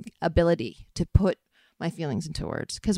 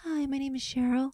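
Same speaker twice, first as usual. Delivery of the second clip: high-pitched put-on English accent; mock English audition voice, high and airy; 9 semitones higher, 3 dB quieter than usual. Shown as a demonstration. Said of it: "I sounded like this".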